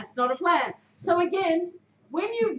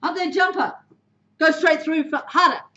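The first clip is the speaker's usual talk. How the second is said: information call; 5 dB louder than usual. Shown as a demonstration. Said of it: "Tell someone exactly what you need them to do".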